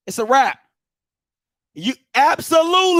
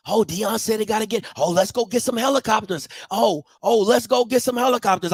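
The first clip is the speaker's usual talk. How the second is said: lower, softer mock of eager followers; mocking gullible fans; 4 semitones lower, 4 dB quieter than usual. Mocking fans rushing to copy Deion, low and soft. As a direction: play the gullible crowd echoing him. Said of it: "why aren't there helicopters".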